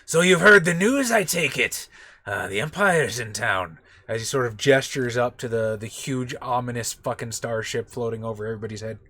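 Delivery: lightly voiced alien dealer; half-hearted Watto voice. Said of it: "meet it in the middle".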